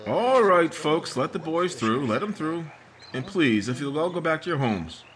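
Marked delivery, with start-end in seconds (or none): 0.1-2.7 calling out. Acted. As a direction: clear the crowd with authority. Sheriff addressing crowd at scene.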